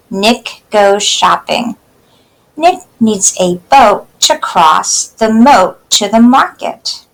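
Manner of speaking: put-on slow, clear poem reading for kids; slow read-aloud. Teacher reading a poem slowly to children.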